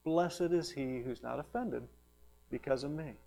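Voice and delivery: soft, subdued admonition; gentle rebuke. Acted. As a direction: deliver it quietly as a mild reproof. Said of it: "This gentle rebuke".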